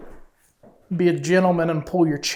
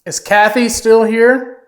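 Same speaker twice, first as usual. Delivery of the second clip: raised voice; 3 semitones higher, 6 dB louder than usual. Real, not acted. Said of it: "sorry for screaming".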